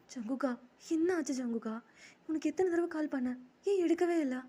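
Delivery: high, loud upset wail; acted tearful reproach, rising in pitch and force; tearful complaint. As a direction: plead as if crying down the phone. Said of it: "எதுக்குடா இப்படி அழுகுற".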